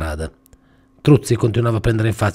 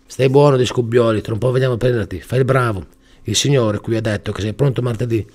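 soothing; 2 semitones higher than usual. Acted. Gubbioli soothing tyre.

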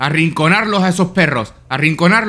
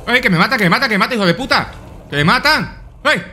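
being chased; 4 semitones higher, faster than usual. Real, not acted. Being chased by enemy in game.

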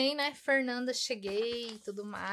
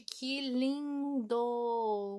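very slow, stretched coo over lindo; drawn-out coo; much slower than usual. Real, not acted. Admiring a tiny ruler for viewers, a slow stretched coo. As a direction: melt over it, dragging the word out.

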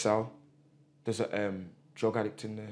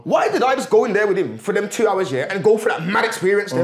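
much higher, louder, amazed questions; baffled disbelief; 3 semitones higher, 4 dB louder than usual. Retold or imitated. Telling his friend how he reacted to the cell: much higher, baffled. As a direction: replay his stunned reaction after leaving the cell. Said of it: "I'm sitting up here saying".

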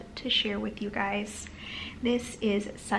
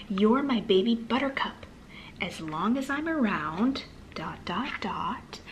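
put-on reading to children. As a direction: read it gently to a small child. Reading picture book aloud.

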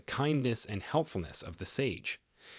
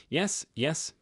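relieved cry; 7 semitones higher than usual. Acted.

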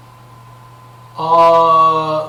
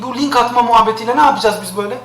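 ordinary talk, nothing marked

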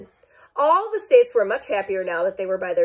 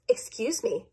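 polite; 5 dB quieter than usual. Acted. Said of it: "said Idaho politely".

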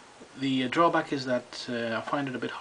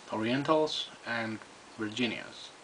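talking around pipe stem; 4 dB quieter than usual. Real, not acted. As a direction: pipe clenched between teeth. Seen 4: Pipe near lips at 0.1-0.6, stem clenched from 0.9 onward.

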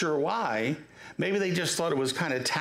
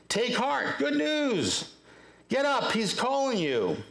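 higher-pitched, encouraging call; calling out good news; 6 semitones higher than usual. Retold or imitated. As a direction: imitate a crowd urging someone up. Crowd calls out to blind man.

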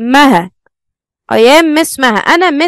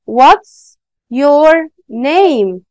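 slow teaching demo; much slower than usual. Shown as a demonstration. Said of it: "هقول إيه؟".

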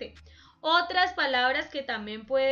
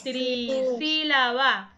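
"Trisílaba" slow, in separated parts; slow teaching demo of "Trisílaba"; syllable by syllable; 3 dB louder, much slower than usual. Shown as a demonstration. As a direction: stretch out Trisílaba as a teacher would. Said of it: "Ahora encontramos trisílabas".

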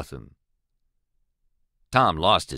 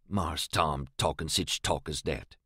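softer, insulted muttering to himself; 5 semitones lower, 6 dB quieter than usual. A narrator's reading. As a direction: grumble it under his breath, offended.

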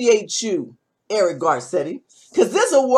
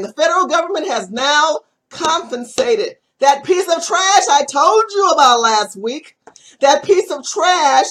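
raised, heated accusation; angry rant; 3 semitones higher, 3 dB louder than usual. Real, not acted. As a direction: spit it out in disgust. Ranting about the suspect.

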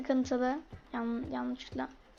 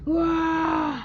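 mock baby crying; 3 dB louder than usual.

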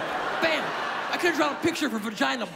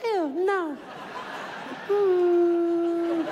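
high disgusted ew no; grossed-out girl; 7 semitones higher, much slower than usual. Retold or imitated. Drunk girl to the cameraman, high and grossed out. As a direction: recoil in disgust, higher. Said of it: "She goes".

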